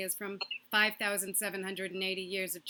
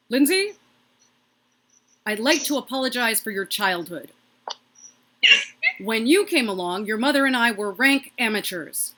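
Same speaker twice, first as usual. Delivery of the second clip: tender dad call; 7 dB louder than usual. Retold or imitated. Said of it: "tender phone call from my dad".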